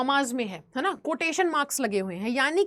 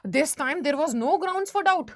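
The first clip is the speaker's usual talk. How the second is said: slow, deliberate read-aloud; teacher reading a story passage slowly to the class; much slower than usual. Acted. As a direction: read the book line slowly, word by word. Reads English story text aloud.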